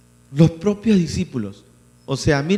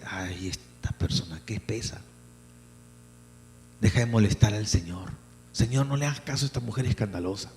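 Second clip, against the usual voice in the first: much softer, scornful murmur; scornful gossip; 6 semitones lower, 9 dB quieter than usual. Acted. Preacher voicing nearby people softly scorning the woman. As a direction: sneer at the woman under your breath. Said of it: "la gente cercana dice".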